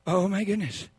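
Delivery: respond quietly, in tender wonder; gentle reaction. Acted. Counselor's gentle reply to confession.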